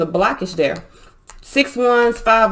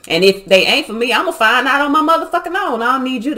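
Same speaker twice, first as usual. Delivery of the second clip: rising into a higher, heated retort; getting mad; 5 semitones higher than usual. Real, not acted. Tarot reader telling off meddlers, heated and higher. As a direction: snap back at people who meddle in your love life. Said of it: "I got mad".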